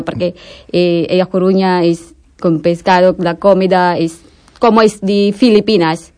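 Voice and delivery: Spanish with a Filipino accent; non-native Spanish with a Filipino accent. Real, not acted. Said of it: "mi español no está bueno".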